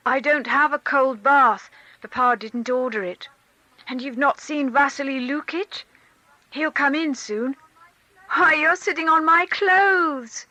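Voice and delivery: put-on high, loud excited boy; a little boy rattling on, then giggling; chattering child. A narrator's reading. Boy chatters to his mother, bubbling with excitement.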